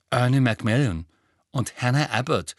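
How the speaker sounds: talking with a full mouth; words round a bite of chocolate. Acted. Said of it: "sagte Ron mit vollem Mund".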